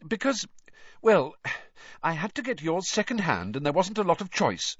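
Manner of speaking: a touch embarrassed mother. A narrator's reading.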